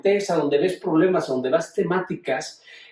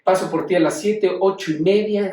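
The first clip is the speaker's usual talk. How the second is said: imitating breezy mother; 3 semitones higher than usual. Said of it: "y entonces".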